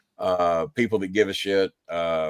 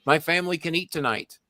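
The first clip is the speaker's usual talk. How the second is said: mild imitation of a tearful young girl, higher; tearful girl's thanks; 7 semitones higher than usual. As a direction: voice her overwhelmed gratitude, pitched higher. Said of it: "She cried".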